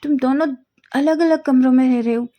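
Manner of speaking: can't believe what he hears; shocked disbelief. Acted. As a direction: friend reacting to shocking news, surprised. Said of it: "shocked हो जाता है".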